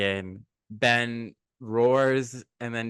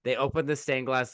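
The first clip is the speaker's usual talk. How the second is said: normal talking voice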